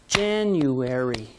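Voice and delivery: January with Jan hit hard; JAN-uary, strong first beat; stress on JAN. Shown as a demonstration. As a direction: punch the first syllable of January. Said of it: "put a loud clap on the stressed syllable".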